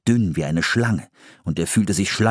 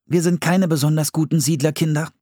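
put-on higher boy voice reading from a book; boy reading aloud; 7 semitones higher than usual. A narrator's reading. Philipp reads the book to his sister, high and careful. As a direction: read it like a kid reciting facts.

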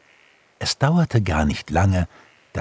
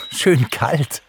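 lightly amused, higher voice; 9 semitones higher than usual. A narrator's reading. Pixie describes winter to the stork, lightly amused. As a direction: answer with playful good humour. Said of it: "lachte Pixie".

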